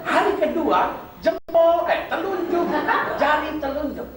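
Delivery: high, slow, giggling as he tells it; half-laughing joke telling; laughing through it. Real, not acted. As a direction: chuckle the words out.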